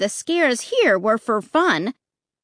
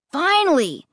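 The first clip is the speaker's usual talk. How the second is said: exclaiming; 5 semitones higher than usual. Acted. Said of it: "he cried".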